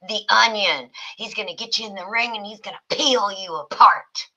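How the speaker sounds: half-serious wrestling hype; mock wrestling announcer. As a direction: talk up a fearsome wrestler, playfully. Mock wrestling introduction of Tony.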